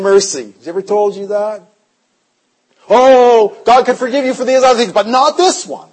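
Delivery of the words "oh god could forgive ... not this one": devil voice. Retold or imitated. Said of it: "He'll come and tell you".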